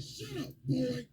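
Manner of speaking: high-pitched dismissive retort; mock scolding. Acted quote, Escanor dismissing his opponent.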